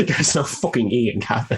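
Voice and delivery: loud, high, laughing objection; laughing protest. Real, not acted. Cohost disputing how a word is read, laughing protest.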